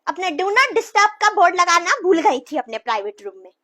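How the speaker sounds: loud, sarcastic wife. Acted. Wife shouts sarcastically at husband on phone, loud. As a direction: barge in loud and mocking.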